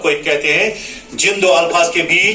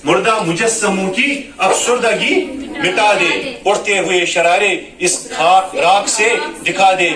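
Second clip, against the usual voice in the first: melodic poem recital. Shown as a demonstration. Teacher recites the closing verses in melodic tarannum. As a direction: chant the lines like a mushaira reading.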